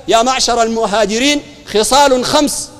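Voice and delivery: slow, measured formal quotation; hadith recitation. Retold or imitated. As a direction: declaim it solemnly with lengthened vowels. Quoting the Prophet's saying formally.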